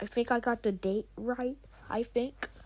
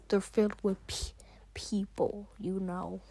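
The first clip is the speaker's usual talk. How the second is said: whispering; 3 semitones lower, 7 dB quieter than usual. Acted. Creepy secret about the chicken.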